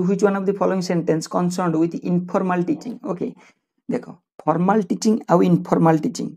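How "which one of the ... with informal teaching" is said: slow, deliberate exam-question reading. Shown as a demonstration. Teacher reading a quiz question to students, slow and deliberate. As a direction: read each word out clearly for the class.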